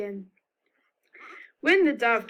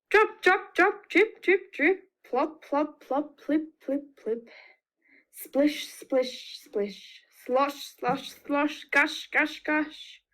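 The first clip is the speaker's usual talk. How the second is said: rain sound effects; 4 semitones higher, slower than usual. Shown as a demonstration. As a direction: play the rain for the children, fading. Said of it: "help me with some of these rain sounds".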